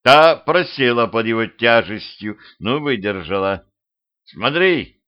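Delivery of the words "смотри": mild raised-pitch cry; calling out. Acted. Petrovich alerts vampire girl, understated shout. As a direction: call it out, higher, without full volume. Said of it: "крикнул он вампирше".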